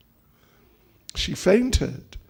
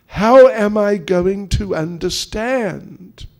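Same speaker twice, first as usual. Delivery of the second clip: earnest appeal; 4 semitones higher, 7 dB louder, slower than usual. Retold or imitated. Krishna earnestly asks his wife.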